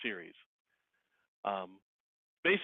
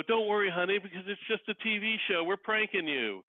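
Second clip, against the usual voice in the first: teasing reveal; 8 semitones higher than usual. Retold or imitated. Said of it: "and then go".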